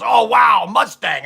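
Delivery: loud "wow", imitating an excited customer; mildly acted amazement; retold excitement. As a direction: act out a customer's delighted discovery. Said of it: "he's getting all excited".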